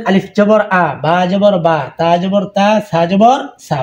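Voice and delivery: আলিফ জবর আ spelled out clearly, letter, vowel sign, then sound; spelling drill. Shown as a demonstration. Teacher spelling Arabic letters for students, clear drill. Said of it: "এই চারটা হরফ কিভাবে শিখবেন".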